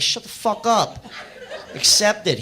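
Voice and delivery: high, loud, mock-aggressive order; hammed-up yell, overruling a complaint; retold shout-down. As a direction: shout your friend down, imitated. Other friend shouting Richie down.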